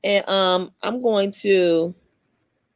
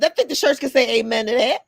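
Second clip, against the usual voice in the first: church voice. Pretend. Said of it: "So I'm gonna do my church voice".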